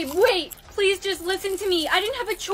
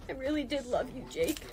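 quiet farewell; 3 semitones lower, 9 dB quieter than usual. Acted. Dying farewell.

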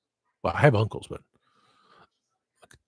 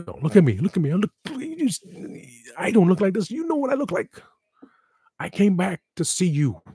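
ghostly plea; 8 semitones higher than usual. Retold or imitated. Ghost speaks from beyond.

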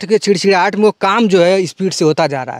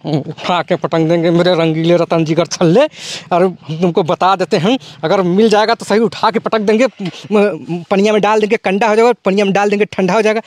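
higher comic film threat voice; Rajpal Yadav voice; 3 semitones higher than usual. Acted. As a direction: deliver it as a comic bumbling tough guy. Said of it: "Rajpal Yadav जो है, उनका acting".

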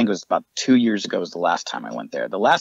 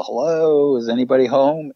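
higher, louder hello into the house; calling out; 5 semitones higher, 3 dB louder than usual. Retold or imitated. Calling into the dark house to see who answers. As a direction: call it out to whoever's inside.

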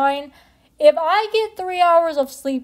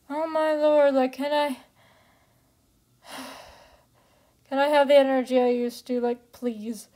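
out of breath; 5 dB quieter than usual. Real, not acted. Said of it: "Because now I'm sweating".

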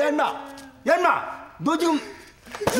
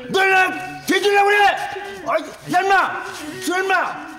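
angry yell; 7 semitones higher than usual. Acted. Officer yelling at rowdy detainees, angry. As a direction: bark the threat at the noisy crowd.

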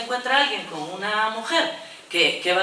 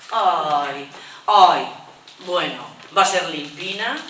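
mock sugary ay, louder on the second; doting neighbour; 3 semitones lower, 3 dB louder, slower than usual. Neighbour gushing to mother about a baby girl. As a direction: gush over the coming baby girl. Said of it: "cambia de tono".

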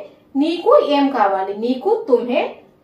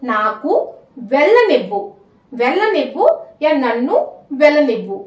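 slowly for dictation. Shown as a demonstration. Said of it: "मैं धीरे धीरे बोलूंगी ताकि आपको समझने में आसानी हो".

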